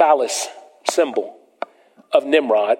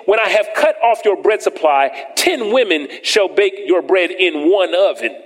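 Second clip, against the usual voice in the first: lifted, proclaiming reading of the curses; preacher reading the curses to his church; scripture reading; 3 semitones higher than usual. Acted. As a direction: warn them with each verse. Reads scripture, peaks high.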